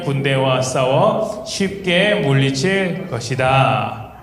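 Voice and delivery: slow, measured Bible reading voice; slow scripture reading. Acted. Children's pastor reading Gideon's story aloud, slow and measured. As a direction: read each phrase slowly and clearly, as for children.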